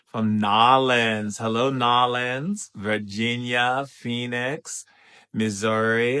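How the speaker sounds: drawn-out roll call of places; greeting call. Real, not acted. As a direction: call out each town with gusto. Greeting viewers' home towns in turn.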